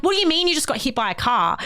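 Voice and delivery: high, fast alarmed question; quick and high, in disbelief; shocked friend. Retold or imitated.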